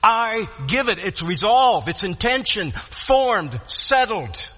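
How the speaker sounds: emphatic, resolved preacher's delivery; resolute declaration. Retold or imitated. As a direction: GIVE said firmly, then each point set down separately. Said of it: "it basically sounds like this".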